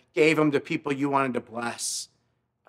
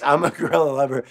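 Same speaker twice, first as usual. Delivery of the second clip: quick repeat; faster than usual. Retold or imitated. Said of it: "So funny".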